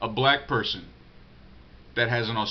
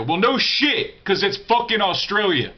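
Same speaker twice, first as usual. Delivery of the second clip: exasperated retort; 6 semitones higher, 4 dB louder than usual. Real, not acted. Exasperated rant about the answer.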